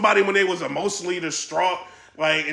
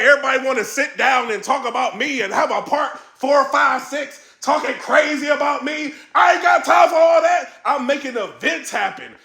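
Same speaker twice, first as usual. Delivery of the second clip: raised, higher mock rant with shouted bursts; Beasley rant; 5 semitones higher than usual. Imitating Beasley ranting about people talking about him, higher and shouting. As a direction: hype it up like he's fed up with the talk. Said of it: "He's like".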